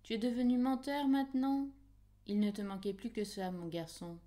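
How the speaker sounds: gronde-le en mère indignée; reproche maternel. Acted. Mère gronde son fils menteur. (reproche indigné d'une mère, plus aigu et plus fort au début)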